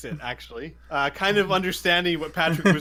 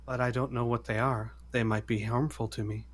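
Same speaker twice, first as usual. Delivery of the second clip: gentle voice; 3 semitones lower, 6 dB quieter than usual. Acted. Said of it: "in a very gentle voice ... talking to a child".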